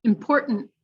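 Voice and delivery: "Important" with a throat stop and an unreleased final T; stop, then hold the last T; glottal then held T. Shown as a demonstration. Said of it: "glottal and then held".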